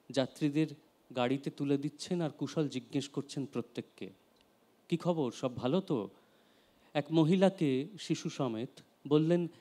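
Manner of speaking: measured narrative poem reading; understated verse reading, phrase endings dropping away; poetry recitation. Acted. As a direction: recite in phrases with pauses between. Reads second poem aloud.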